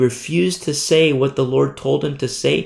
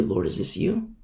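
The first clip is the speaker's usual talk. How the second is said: whispered, higher Lord, is this you; whispered prayer; 7 semitones higher, 10 dB quieter than usual. Acted. Amos privately asking God, now in a whisper. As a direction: breathe the question to God. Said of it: "He might wonder".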